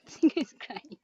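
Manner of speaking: said through a small giggle; giggling. Real, not acted. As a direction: let a laugh break into the words. Giggles while repeating the announcement.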